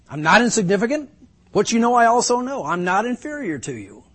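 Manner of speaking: retorting Job. Acted. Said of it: "he goes on to say".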